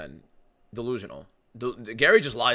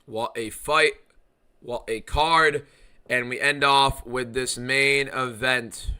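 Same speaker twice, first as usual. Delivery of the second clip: hype announcer; 3 semitones higher, 7 dB louder, slower than usual. Real, not acted. Announcing the main event card.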